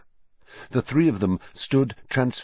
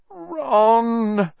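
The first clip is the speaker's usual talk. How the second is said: high, louder call after him; moaning call; 13 semitones higher, 4 dB louder than usual. A narrator's reading. Hermione calling after Ron as he runs, moaning. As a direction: call his name in distress. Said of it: "Hermione moaned".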